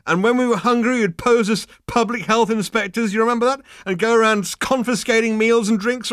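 high, loud tipsy chatter; slap-on-the-back drunken nostalgia; loud drunk reminiscing. Acted. Drunk Ford keeps rambling.

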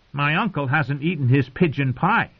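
put-on high, taunting young king voice; a spoilt boy king needling his uncle; cruel boy king. Joffrey taunts his uncle, high and mocking.

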